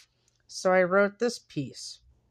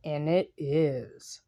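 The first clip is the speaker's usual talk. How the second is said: reading own piece. Acted. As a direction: read it like a confession, letting phrases fall away. Reads her own written piece.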